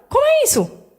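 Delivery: high, incredulous question; retold disbelief. Mother telling her ex the lost phone reappeared, high disbelief. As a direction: ask it as if the phone appearing makes no sense.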